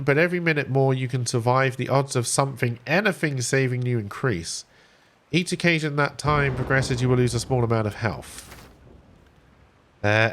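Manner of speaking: measured read-aloud of game text; story narration. A narrator's reading. Streamer reading the stranded survivor's tale to viewers, narrating.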